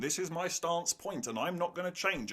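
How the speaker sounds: mock a character digging in; stubborn mock quote. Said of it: "characters repeating themselves".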